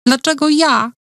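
high, sobbing cry; a question broken by a sob; sobbing to the nurse, asking why her. A narrator's reading. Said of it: "ponownie przerwał mi szloch".

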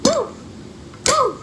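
high cheering whoop; excited whoop. Real, not acted. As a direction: whoop in triumph. Celebrating smash.

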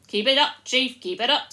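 hearty shout of encouragement; cheering followers. A narrator's reading. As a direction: egg the leader on like a crowd. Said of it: "said the other voices".

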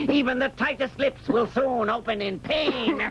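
laughing through the threat; gloating laughter. Acted. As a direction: relish every word with a laugh. Caliph relishes torture.

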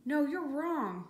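loud, high, drawn-out protest; shouted. A narrator's reading. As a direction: shout the objection, stretching each word. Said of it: "he shouted".

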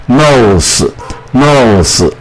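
"nose" with the E left silent; silent final E. Shown as a demonstration. Teacher showing learners the word, silent final E in "nose". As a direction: draw out "nose", ending on a separate s. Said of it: "一部发音".

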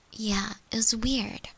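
ordinary talk, nothing marked

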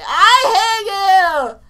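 drawn-out answering shout. Pretend. Answering game voice.

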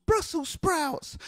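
very high, drawn-out grandma cry. Retold or imitated. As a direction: call it out slowly in a high grandma screech. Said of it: "She sounded like this".

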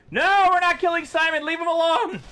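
very high-pitched protest; exasperated scolding. Real, not acted. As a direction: scold in a high, strained squeal. Scolding over killing Simon.

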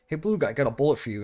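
retold aggressive. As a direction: call it out with a touch of aggression. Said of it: "He's being very aggressive".

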